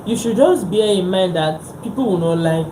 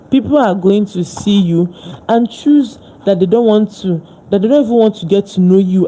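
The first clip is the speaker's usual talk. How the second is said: louder, driving the point home; fired-up motivational speech; louder, impassioned; 4 dB louder than usual. Real, not acted. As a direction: push it out loud like a preacher. Passionate motivational build.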